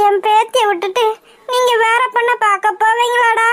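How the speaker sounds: acted tearful complaint; tearful reproach. Grandmother reproaches son over her rejected granddaughter, tearful. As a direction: reproach them through mild crying. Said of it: "உட்காந்து அழுதுட்டே இருக்க".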